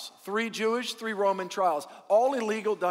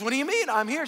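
indignant protest; 5 semitones higher, faster than usual. Acted. Joke: rival protests at the gate.

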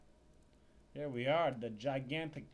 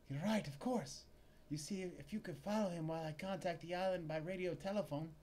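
a touch higher, compliant female clerk; lightly voiced clerk; 4 semitones higher than usual. Clerk agreeing to plan, slightly higher voice.

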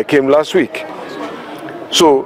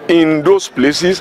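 slow, deliberate weight on "those"; stress on "those"; much slower than usual. Real, not acted. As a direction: lean on "those" in the phrase. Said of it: "I stress that word".

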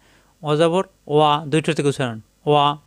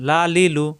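measured syllable drill. Shown as a demonstration. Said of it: "হারকাতের উচ্চারণ তাড়াতাড়ি".

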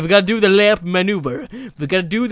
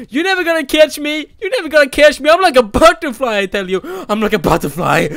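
loud singsong boasting; gleeful taunt; 5 semitones higher, 6 dB louder, faster than usual. Real, not acted. Gamer boasting to the owner, loud and playful. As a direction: brag like a butterfly.

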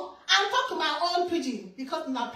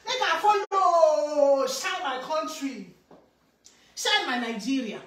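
proud resolve; 2 semitones higher, 4 dB louder, slower than usual. Retold or imitated. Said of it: "I go say".

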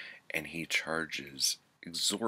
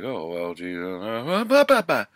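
hammed-up yell, much louder and higher, blowing up on "bah, bah, bah"; mock shouting; 7 semitones higher, 14 dB louder than usual. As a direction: parody every line ending in an exclamation point. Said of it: "And then he's like".

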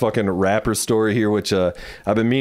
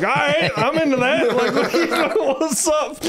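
laughing through words. Retold or imitated. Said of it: "I'm like".

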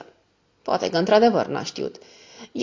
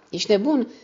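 higher-pitched, mildly exclaimed reproach; exclaimed scolding; 6 semitones higher than usual. A narrator's reading. Mother scolds Ned for going out, exclaimed reproach. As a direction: scold him with the pitch raised. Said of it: "strigă ea".

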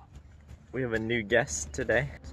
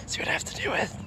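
higher, breathy mock echo of the complaint; mocking mom; 12 semitones higher, much faster than usual. Kid echoing mom's complaint in a mock high voice. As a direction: parrot it back in a silly high voice.

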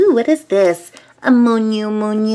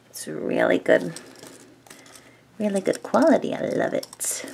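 whispering; 6 dB quieter than usual. Real, not acted. Squishy review, whispering close.

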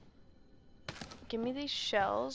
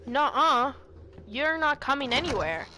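loud, laughing protests; laughing refusal; 8 dB louder, slower than usual. Real, not acted.

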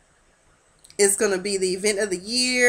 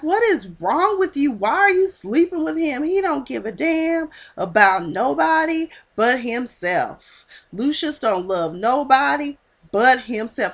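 higher, scolding like a stern father; paternalistic scolding; 4 semitones higher than usual. Retold or imitated. Jamal scolding his mom for sleeping with Lucius, higher and stern. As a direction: lecture his mother like a disapproving parent. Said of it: "He turns paternalistic".

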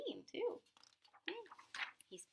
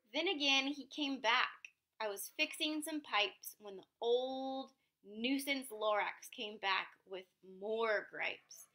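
lively read-aloud narration; story narration; 4 dB louder, slower than usual. A narrator's reading. Parent reading a picture book aloud, in lively narration. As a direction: read the tale to a child with bounce.

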